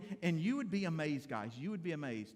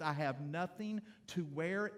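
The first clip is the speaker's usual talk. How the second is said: slow "I have nothing to wear" with a rising, hinting end; wife in the closet hinting she wants something new; wife's hinting tone; slower than usual. Retold or imitated. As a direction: drop a hint for a new outfit. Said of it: "When Tricia stands in the closet and she says".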